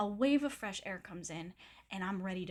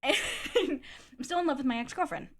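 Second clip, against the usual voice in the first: higher, laughing imitation; mocking laugh; 4 semitones higher than usual. Quoting his confession back, laughing and mocking. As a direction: laugh through a mocking quote.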